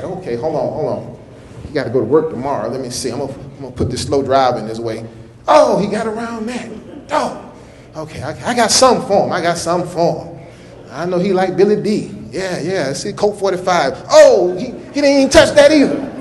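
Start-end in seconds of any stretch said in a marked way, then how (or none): 0.0-10.5 low, sly devil scheming to God; the devil talking to God, low and sly; voicing the devil. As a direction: play the devil plotting quietly.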